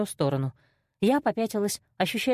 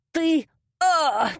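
higher, louder wail; howl; 8 semitones higher, 4 dB louder than usual. A narrator's reading. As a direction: yell out in pain and fury. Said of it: "завопил Ваня".

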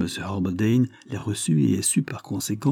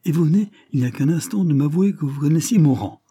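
higher, louder and fast, indignant; proud indignation; 6 semitones higher, 4 dB louder than usual. A narrator's reading. William protests his honour to Mr Blair, loud and indignant. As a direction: rebuke him with wounded pride, quickly. Proud prisoner rebukes the detective.

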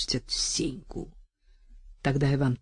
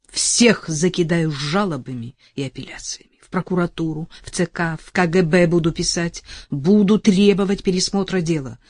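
passionate vow. Acted. Vow to jailed lover.

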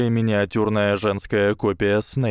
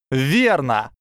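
eager exclamation; 5 semitones higher, 4 dB louder than usual. A narrator's reading. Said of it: "воскликнула Парвати".

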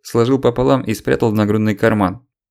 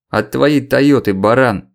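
losing temper; 3 semitones higher, 4 dB louder, slower than usual. Acted. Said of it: "не выдержал Белов".

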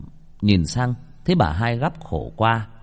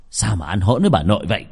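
mock scolding; faster than usual. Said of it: "Ông Hiếu làm bộ nạt thằng con".

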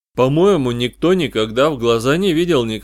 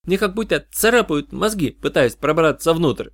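disgusted; 6 semitones higher than usual. Acted. Janna disgusted by the voices.

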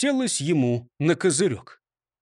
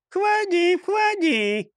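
parrot voice; 12 semitones higher, much slower than usual. A narrator's reading. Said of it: "раздался голос из темноты".

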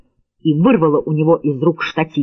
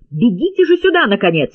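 high, impatient call to run; urgent shout; 6 semitones higher than usual. A narrator's reading. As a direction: hurry him over, yelling. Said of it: "крикнула Ли".

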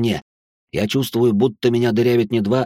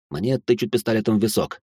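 plain reading voice

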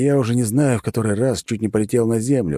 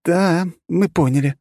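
harsh and firm; 11 semitones higher, 3 dB louder than usual. Acted. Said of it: "жёстко ответила".

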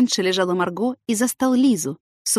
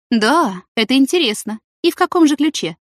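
bitter, sarcastic tirade, louder; trembling with spite; 5 semitones higher, 5 dB louder than usual. Acted. Jealous colleague lashing out at the couple, louder and bitter. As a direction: spit it out shaking with jealous rage. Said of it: "Ольга просто тряслась от злобы".

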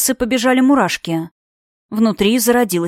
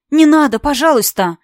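higher, louder frightened plea; pleading; 5 semitones higher, 4 dB louder than usual. Acted. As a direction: beg him to spare her. Yuna begging for Nailya.

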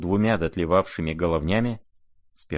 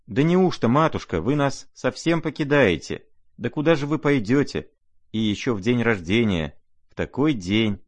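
a touch of tearful, higher pleading; 5 semitones higher than usual. Acted. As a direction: beg her not to leave, close to tears. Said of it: "спрашивали расплакавшиеся девушки".

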